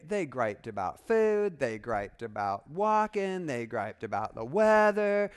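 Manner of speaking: loud, drawn-out gripe on each complaint; mock griping. Preacher lists the Israelites' complaints to his congregation, mock griping. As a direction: exaggerate each complaint, stretching the last word. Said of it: "whiny, gripey people".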